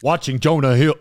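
failed celebrity impression; half-hearted attempt at someone else's voice; Kanye. Host starting to read the post in character, badly faked impression. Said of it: "that doesn't even sound like Kanye".

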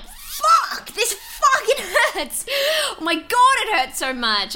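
high, strained, half-laughing pain cry; mock pained cry. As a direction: yelp the swearing as if it still burns. Retold pain during laser.

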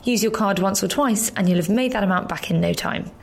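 podcast promo read; scripted ad read. Acted. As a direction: read out a members' club promo to listeners. Reads podcast club ad.

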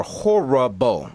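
"horrible" slowly drawn out in separate syllables; "horrible" said slowly as HOR-RUH-BO; emphatic HORRIBLE. Real, not acted. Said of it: "Let me say that again".

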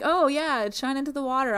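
high, loud mocking impression of a friend; mock-naive and high-pitched; tipsy friend. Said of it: "She's loosey-goosey, kinda drunk".

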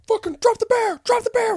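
high, loud mock cop yell; cop shouting orders. Cops yell at him over the stolen bear, loud barked order. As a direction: bark it like a cop drawing on you.

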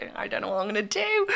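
whispered, hurried mock helplessness; retold hushed despair. Pupil with no sixth form place, whispered helplessness. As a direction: half-whisper it, at a loss. Retelling her panic at no places.

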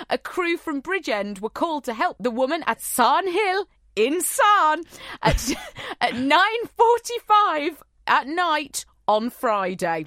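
put-on lilting, slowed amateur Welsh accent; attempted Welsh accent. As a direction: read the news in a wobbly Welsh accent. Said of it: "read this in a Welsh accent".

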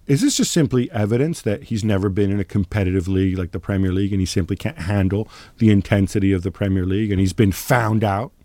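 mock-serious wind-up question; sarcastic. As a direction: ask it dripping with sarcasm. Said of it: "I hope you detect the sarcasm in my voice".

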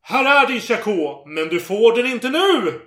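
a mock triumphant girl teasing the soldier; triumphant call. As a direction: crow it down from the wall. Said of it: "ropade triumfatoriskt".

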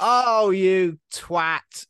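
loud, high driver's outburst; mock road rage. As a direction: curse another driver in a playful shout. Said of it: "I might use twat when I'm driving".

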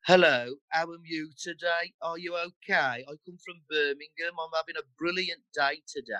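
Birmingham accent, slow and drawn out; unhurried, evenly paced Birmingham speech. Shown as a demonstration. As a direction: stretch each phrase in leisurely Brummie. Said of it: "kind of slower".

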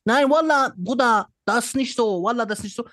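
put-on high, loud Shisha-bar bro accent; loud street German with Arabic flavour. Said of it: "der dann sitzt und sagt".

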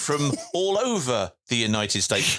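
mock all-purpose American accent; generic American accent. Answering where he's from, in a teasing generic American accent. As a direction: play a vague American from nowhere in particular. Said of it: "Very generic".

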